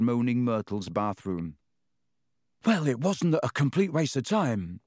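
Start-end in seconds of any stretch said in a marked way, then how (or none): 2.7-4.8 panting after a sprint; breathless from running; out of breath. Acted. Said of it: "Ron panted".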